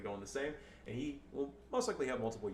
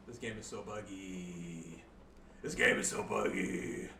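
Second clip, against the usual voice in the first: put-on drawn-out, lower white-girl complaint; 5 semitones lower, slower than usual. Complaining to stream about the buggy game, white-girl voice. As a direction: whine it slowly like a white girl. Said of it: "not trying to sound like a white girl".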